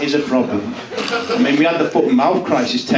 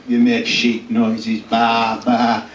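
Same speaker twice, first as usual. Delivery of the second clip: mock sheep bleat; 4 semitones lower, much slower than usual. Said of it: "they think".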